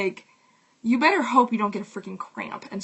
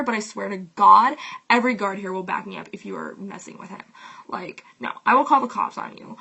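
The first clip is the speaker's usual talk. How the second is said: furious, loud telling-off, pitch raised at the start; angry rant; 6 dB louder than usual. Retold or imitated. Lifeguard tells off rude man at pool, loud and furious. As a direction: bark it at him like you'll throw him out now. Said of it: "that was a good rant".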